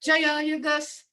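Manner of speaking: Jayayagas with a touch of annoyance; mildly irritated hush command; a little frustrated. Shown as a demonstration. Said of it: "that's a little bit frustrated".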